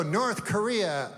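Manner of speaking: slow, weighty news-anchor doom; mock dramatic news voice; ominous media warning. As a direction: drag it out like a scary headline. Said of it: "they go".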